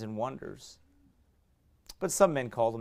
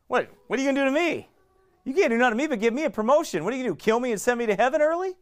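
defiant retort; 10 semitones higher, 3 dB louder, faster than usual. Retold or imitated. Pastor's defiant reply to stalker.

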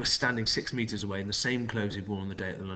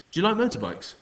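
higher, louder, falsely friendly man; a strange man feigning polite concern; smarmy stranger; 10 semitones higher, 6 dB louder than usual. A narrator's reading. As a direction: charm the kids with a fake smile. The man changes subject.

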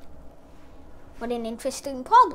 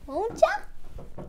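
Won't ya? pitched much higher and teasing; high playful echo; 8 semitones higher, 5 dB quieter than usual. Shown as a demonstration. Teacher playfully repeats a reminder to viewers, high teasing echo. Repeats tag question twice.

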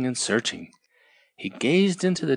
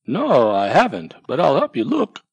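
louder little mouse voice; Mouse helping; 2 semitones higher, 6 dB louder than usual. Acted. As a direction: offer help kindly. Mouse offers help.

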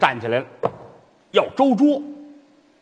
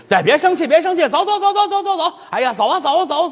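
put-on high child's voice, pulling him along; coaxing child; 12 semitones higher than usual. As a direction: nag him to come like a kid.

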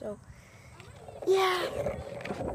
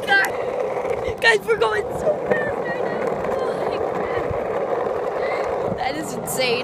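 sledding downhill; 7 semitones higher, slower than usual. Real, not acted. Riding fast down the hill.

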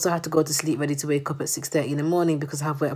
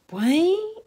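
whisper; 11 semitones higher than usual. Real, not acted.

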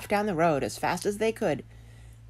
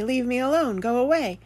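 higher voice mimicking the potato; quoted potato; 7 semitones higher, 3 dB louder than usual. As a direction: farmer imitating a huffy potato. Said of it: "I heard my potato say".

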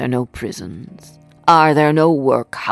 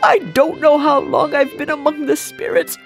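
high, loud, elated babble; giddy joy; 8 semitones higher, 4 dB louder, faster than usual. A narrator's reading. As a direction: bubble over with giddy delight. Scrooge giddy with joy on waking.

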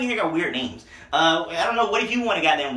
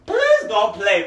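slow sign-off; 3 semitones higher, 4 dB louder, much slower than usual. Real, not acted. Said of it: "sign-off catchphrase".

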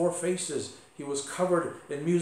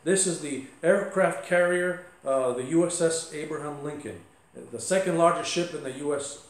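mildly stern, slightly raised voice; a touch of stern command; stern captain; 3 dB louder than usual. Retold or imitated. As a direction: act out a frustrated captain pulling rank. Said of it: "in a stern voice".

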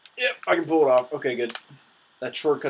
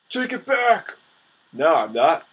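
mock outrage; 3 semitones higher, 7 dB louder, slower than usual.

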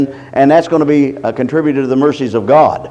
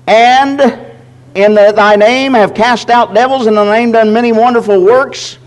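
higher, proclaiming scripture read; 5 semitones higher than usual. Acted. Preacher reads the verse aloud to the church, higher and proclaiming. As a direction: lift the verse up and declaim it.

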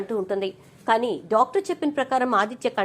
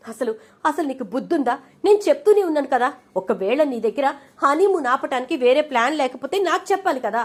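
angry scolding; 3 semitones higher than usual. Acted. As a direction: tear into her for going too far. Accomplice confronts Jeevana over accident.

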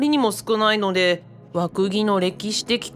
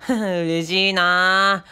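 dreamy delight; 3 semitones lower, much slower than usual. Real, not acted. Dreamy after the kiss.

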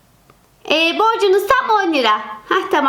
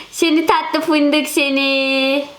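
slow cooing to cat; 4 semitones lower, much slower than usual. Acted. Kediyi seviyor.

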